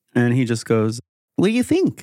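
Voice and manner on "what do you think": put-on very high, piping little frog-boy voice. Voicing a hologram of a little frog person: Azor's voice. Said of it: "a little bullywog boy that has Azor's voice".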